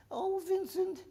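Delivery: high, sing-song imitation of doting ladies; ladies' farewell. Scottish ladies bid farewell to the paratroopers, high doting sing-song. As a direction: tease him like fond Scottish ladies.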